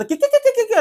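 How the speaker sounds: high, rapid mocking squawk; mock screeching. Host mimicking a contestant yelling at everyone, mock screeching. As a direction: imitate her yelling as high-pitched gibberish. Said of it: "అని అరుస్తూనే ఉన్నారు".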